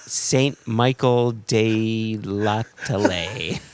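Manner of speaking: put-on a French accent that comes and goes, slow on the names; patchy French accent. Reading a listener email in a half-French accent that slips. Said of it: "interesting French accent you have that comes and goes".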